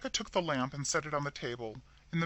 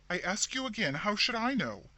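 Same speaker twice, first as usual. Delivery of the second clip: irritated; 7 semitones higher than usual. A narrator's reading. Annoyed sister retorting.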